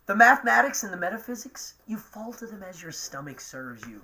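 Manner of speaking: reciting verse from memory, lightly theatrical; half-remembered stage monologue, with a long stretched pause; Shakespeare recitation. Acted. Reciting Shakespeare to the live chat, lightly theatrical. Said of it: "that's a really great monologue".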